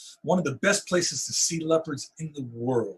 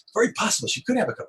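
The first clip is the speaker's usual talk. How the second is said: lightly imitated South African guide, quick and higher; South African accent; 6 semitones higher, faster than usual. Safari guide answers the photographer's hunch, light South African accent. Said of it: "in this wonderful South African accent".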